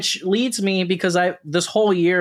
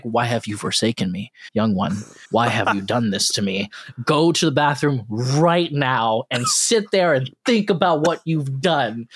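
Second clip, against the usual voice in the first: lower, mournful mock-biblical scolding; voicing his stomach; 4 semitones lower than usual. Friend voices his stomach scolding him after fast food, lower and mournful. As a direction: lament like a wounded deity, pitched down.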